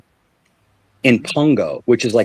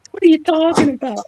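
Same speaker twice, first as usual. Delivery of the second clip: incredulous. Retold or imitated. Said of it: "his own shocked reaction".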